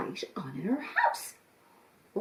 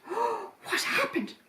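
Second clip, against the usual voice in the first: tearful question; 12 semitones higher than usual. Acted. Mother asks shaken child.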